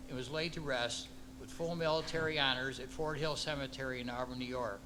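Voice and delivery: measured ceremonial reading with pauses between clauses; formal proclamation. Acted. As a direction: read out an official proclamation, phrase by phrase.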